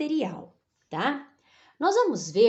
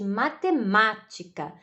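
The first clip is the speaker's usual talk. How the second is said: "matemática" with the second MA stressed; ênfase na sílaba tônica. Shown as a demonstration. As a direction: lean on the MÁ in "matemática". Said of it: "O segundo ma". ("matemática" com mais força no segundo MA)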